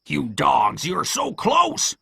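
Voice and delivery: slow cry climbing very high; Pew's angry cry. Acted. Blind man berates his retreating men, crying out. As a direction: berate them, stretching the last words. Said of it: "cried Pew".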